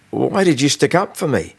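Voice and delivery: a hint of a controlled artificial voice. A narrator's reading. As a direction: speak like a machine that mimics feeling. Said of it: "perfectly controlled, but quite realistic-sounding, artificial voice".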